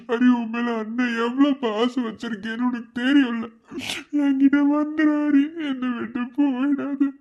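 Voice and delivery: sobbing, pleading with a dying sibling; tearful begging, voice breaking; crying plea. Acted. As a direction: beg through tears. Begging unconscious sibling to return.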